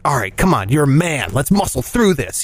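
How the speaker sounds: low, mock-manly pep talk; acting out a gruff-up to himself; self pep talk.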